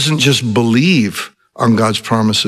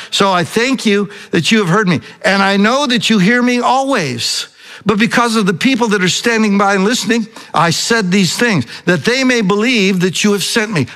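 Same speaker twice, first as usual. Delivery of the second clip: higher-pitched retold prayer; praying out loud; 6 semitones higher than usual. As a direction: recite Jesus's prayer aloud to the Father. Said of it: "So he prays out loud".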